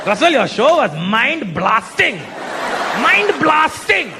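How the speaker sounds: put-on slow, drawn-out Indian-accented rave; emphatic Indian accent. Indian fan raving to comedian, slow emphatic accent. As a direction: stretch the praise out with an Indian accent. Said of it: "so emphatic with their compliments".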